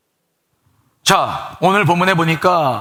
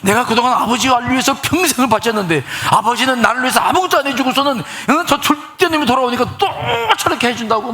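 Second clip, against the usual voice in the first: raised, aggrieved whining at father; resentful complaint; 5 semitones higher than usual. Acted. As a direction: complain bitterly to your father. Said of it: "화가 나가지고 막 이제 막 아버지 원망을 하는 겁니다".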